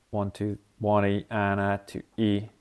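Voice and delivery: counting the rhythm. Shown as a demonstration. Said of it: "that's the rhythm".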